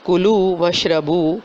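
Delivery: کلو وشربو drawn out and chanted; recited verse. Shown as a demonstration. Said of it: "قرآن پاک میں ارشاد ہے". (کلو وشربو تلاوت کے انداز میں)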